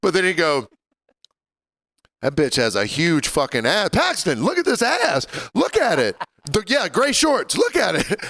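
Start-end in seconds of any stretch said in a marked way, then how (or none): 2.2-8.2 high-pitched, insistent mock excitement; high, eager retelling of an indiscreet friend; indiscreet excited pointing. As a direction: imitate a buddy urging everyone to look. Acting out friend's indiscreet pointing at bar.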